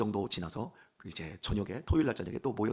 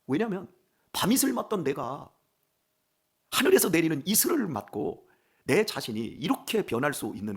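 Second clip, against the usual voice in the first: raised, loud pulpit declaration; impassioned preaching; 5 semitones higher, 7 dB louder than usual. Real, not acted. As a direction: proclaim it with swelling conviction to the congregation. (힘주어 높게 외치는 설교)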